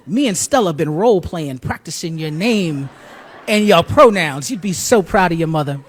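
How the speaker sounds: loud, emphatic imitation of a proud mother; big, deliberate acted-out maternal pride; proud boasting. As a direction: boast it, stretching out each achievement.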